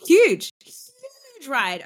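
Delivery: high, slow, drawn-out; emphatic agreement. Real, not acted. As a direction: stretch it out with delight.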